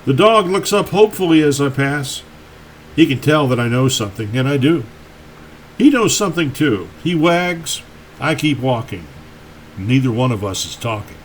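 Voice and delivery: measured poetry recital with pauses between lines; poem reading. Acted. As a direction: read your poem aloud, letting each line land. Reads own poem aloud.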